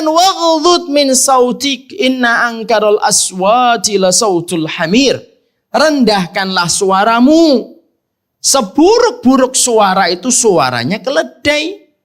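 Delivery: high, loud and slow, every word stretched out for weight; forceful preaching. Acted. Ustadz drives home the verse to his congregation, slow forceful preaching. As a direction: preach the verse slowly like a warning.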